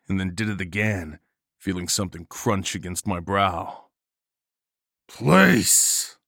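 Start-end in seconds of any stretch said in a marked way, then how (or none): 5.1-6.2 loud, high final shout; furious roar. A narrator's reading. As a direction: roar it out with all your rage. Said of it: "still roaring in fury".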